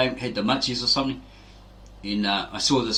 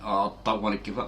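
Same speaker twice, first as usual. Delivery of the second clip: lazy brush-off. Retold or imitated. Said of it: "he goes".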